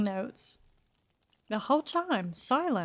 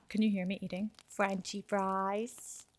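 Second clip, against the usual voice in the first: chewing while talking; 2 semitones lower, 6 dB quieter than usual. Real, not acted. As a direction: mouth full of fries. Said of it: "What you munching on?".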